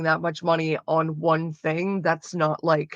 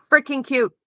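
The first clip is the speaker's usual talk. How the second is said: high squeal of delight, louder; gushing squeal; 7 semitones higher, 4 dB louder than usual. Real, not acted. Streamer squealing to chat over cute sweaters, excited high squeal. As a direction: squeal over how cute they are.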